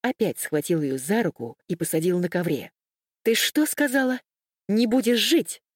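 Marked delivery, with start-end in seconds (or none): 3.2-5.6 menacing shout. A narrator's reading. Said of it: "грозно закричал Юрий".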